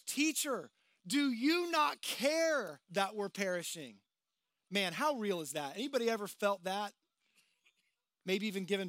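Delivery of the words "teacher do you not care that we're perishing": desperate accusing plea. Retold or imitated. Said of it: "One of them even says".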